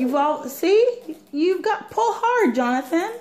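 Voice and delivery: upbeat mom coaxing her son; encouraging. Real, not acted. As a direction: cheer him on to pull hard. Mom coaching child to pull.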